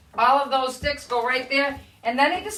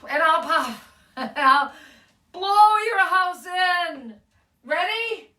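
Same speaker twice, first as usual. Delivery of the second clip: playful wolf threat, building to a long high finish; storybook wolf threat; 4 semitones higher, slower than usual. Acted. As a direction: huff it out, then stretch the final threat. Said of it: "The voice says".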